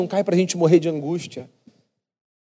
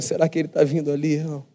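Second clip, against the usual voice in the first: hopeful father murmuring; 3 semitones lower, 6 dB quieter, faster than usual. Retold or imitated. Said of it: "e vai pra varanda".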